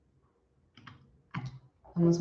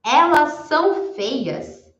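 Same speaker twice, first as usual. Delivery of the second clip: slow demo; 7 semitones higher, 4 dB louder, much slower than usual. Shown as a demonstration. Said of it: "se eu for falar, por exemplo".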